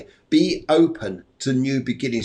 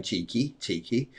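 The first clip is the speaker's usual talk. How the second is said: teasing spirit; 8 dB quieter than usual. Retold or imitated. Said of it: "She almost like nudging me, saying".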